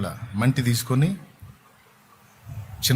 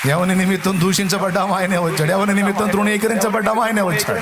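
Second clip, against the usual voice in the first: rising proclamation; 6 semitones higher than usual. Acted. Preacher to congregation, building to a ringing proclamation. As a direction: build the declaration to a peak.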